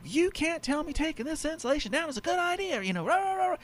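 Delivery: a hint of an old man grumbling; angry old man. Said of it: "the man started yelling at me".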